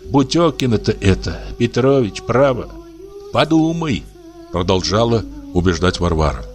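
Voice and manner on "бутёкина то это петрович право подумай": a touch higher, gently coaxing; lightly voiced pleading old woman. Varvara coaxing the old man to write the will, gently pleading.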